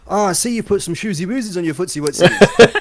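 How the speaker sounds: put-on high, loud cutesy baby talk with a laugh. Man doing his girlfriend's cutesy baby talk. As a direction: coo it sweetly, laughing at himself. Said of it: "everyone looks at me like".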